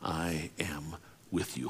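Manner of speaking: unvoiced, soft whisper of God's comfort. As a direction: breathe it like a whisper into the night. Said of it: "whisper over top".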